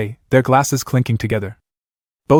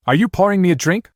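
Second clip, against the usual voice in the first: surprised question, pitched up high; 7 semitones higher than usual. A narrator's reading. Younger brother pours him a drink, surprised. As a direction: ask it in mild surprise.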